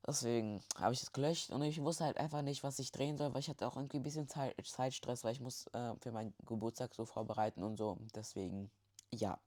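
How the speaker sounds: speaking with a blocked nose; stuffed-up nose, congested voice. Real, not acted. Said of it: "ihr hört es, meine Nase ist zu".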